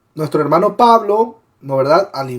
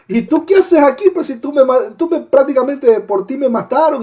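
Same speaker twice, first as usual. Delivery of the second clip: surprised outburst; 6 semitones higher than usual. Pretend. Esteban meets Saulo in heaven.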